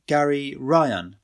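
Gary Ryan drawn out slowly and carefully; struggling to pronounce. A narrator's reading. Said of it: "He struggled to pronounce his name".

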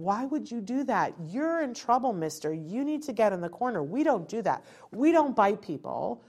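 a hint of a stern parent scolding a child; mildly mock-stern telling-off. Parent in her child's face after a bite, mild mock scolding. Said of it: "I would be in his face going".

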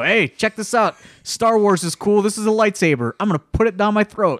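lightly voiced dopey wrestler bragging to the crowd; mocking dim wrestler.

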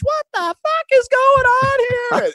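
high, slow mock yell at the bench; angry coach yelling. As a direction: bellow it like a furious coach.

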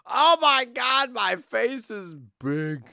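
startled high exclaim; shocked at own face on screen; surprised. Real, not acted. Host reacts to own huge face on screen.

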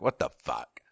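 whispered what the fuck; whispered startled curse; whispered alarm. Retold or imitated. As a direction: hiss it in alarm, unvoiced. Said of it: "he hears the screaming".

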